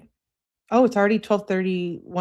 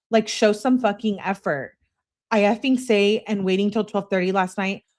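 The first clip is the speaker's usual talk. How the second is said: mock angry girlfriend; 5 semitones higher, 5 dB louder than usual. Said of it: "She emphasizes her message".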